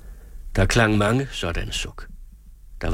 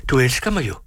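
forfærdet; 6 semitones higher, faster than usual. A narrator's reading. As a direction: let forfærdet, spørgende. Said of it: "forfærdet over hendes ubevægelighed". (mildt forfærdet bøn)

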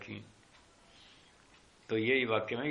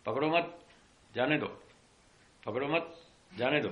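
calling out; 2 semitones higher than usual. Retold or imitated. Jailer to the constables as a thief escapes, calling out. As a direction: call out orders in short bursts with pauses. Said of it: "उनको आवाज लगाई".

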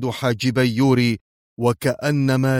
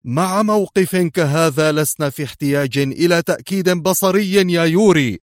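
high, louder heated protest; agitated; 7 semitones higher, 4 dB louder than usual. A narrator's reading. General insisting no visual proof is needed, agitated. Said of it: "اندفع قائلا في انفعال".

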